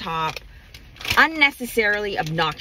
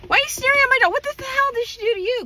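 indignant confrontation; 13 semitones higher, faster than usual. Retold or imitated. Ranting at the stranger who sneered at her dog, outraged. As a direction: fire it at her like she's insulted your child.

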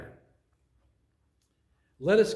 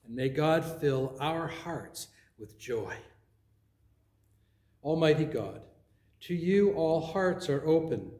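measured liturgical prayer voice. Acted. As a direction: pray it calmly to the congregation. Leads the opening prayer.

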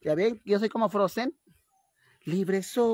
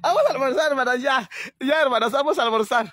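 high, loud summons to lunch; loud call to eat; 5 semitones higher, 6 dB louder than usual. Acted. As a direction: call everyone in from afar. Calling sisters to lunch.

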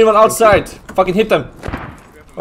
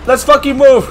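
shouting orders; 3 semitones higher than usual. Real, not acted. Urgent squad order to advance.

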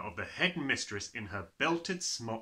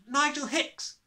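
put-on high, raised boy's voice; small boy; 7 dB louder, slower than usual. A narrator's reading. Small boy giving his full name, high-voiced. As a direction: answer up high and louder.

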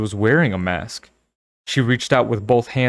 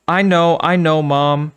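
impatient; 6 semitones higher, 5 dB louder than usual. Acted. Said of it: "Sabrina interrupted impatiently".

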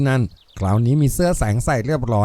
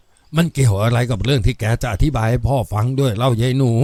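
plain reading voice

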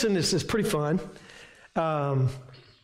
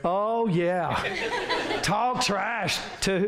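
laughing; 2 semitones higher, much slower than usual. Real, not acted. Laughs at congregant's answer.

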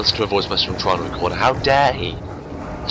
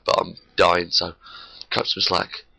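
sore throat; 3 semitones lower, 4 dB quieter, slower than usual. Real, not acted. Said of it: "my throat is killing me".

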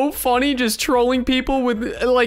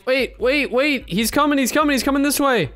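mock alarm; 5 semitones higher than usual. Feigned alarm to trick players.

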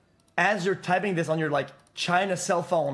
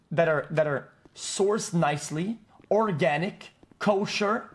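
sarcastic escalating list; 3 semitones higher, slower than usual. Real, not acted. Streamer mocks picky merch buyers, building sarcastic rant. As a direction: pile it up with growing sarcasm.

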